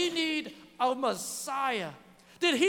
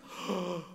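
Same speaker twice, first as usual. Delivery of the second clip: mock shocked gasp; 6 semitones lower, 5 dB quieter than usual. Mock shock at preacher cursing.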